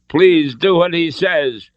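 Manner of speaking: high, slow, loud begging; imploring. A narrator's reading. Hostage begs Indy to obey, slow imploring. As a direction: draw out a desperate plea. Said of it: "Elsa implored".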